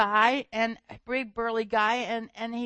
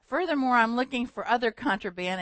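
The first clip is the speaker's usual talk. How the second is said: mock German accent; 2 semitones higher, 4 dB louder than usual. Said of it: "heavy German accent".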